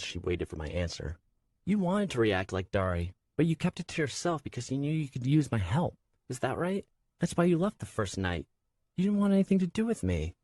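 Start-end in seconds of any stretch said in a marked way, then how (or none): 1.6-10.3 rising, hurt and upset; hurt accusation. A narrator's reading. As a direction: accuse him with growing hurt.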